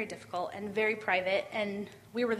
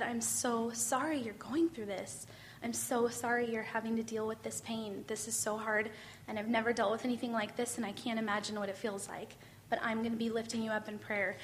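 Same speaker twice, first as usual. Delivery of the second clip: gentle comfort; 4 dB quieter than usual. Retold or imitated. Retelling comforting a hurting woman, softly sympathetic. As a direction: soothe her like a friend holding her.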